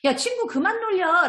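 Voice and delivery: high, slow acted reproach; righteous. Child defending a teased friend, righteous. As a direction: stand up firmly for a friend, role-played. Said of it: "라고 의롭게 또 얘기하는".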